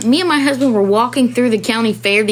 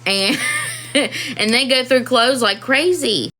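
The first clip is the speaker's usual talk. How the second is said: laughing; 4 semitones higher than usual. Real, not acted.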